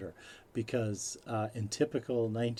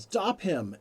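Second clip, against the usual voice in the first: high, loud mock yell; retold yell; 9 semitones higher, 5 dB louder than usual. Guard suddenly spots the man at the gate, yelling. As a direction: yell out the order as a retold quote. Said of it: "he just yells".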